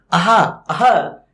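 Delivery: अहा, अहा slow with a breathy h; अहा, अहा drawn out to show the visarga; visarga sound demo. Shown as a demonstration. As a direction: say अहा slowly, letting the ह breathe out. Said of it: "ह के समान ध्वनि निकालता है".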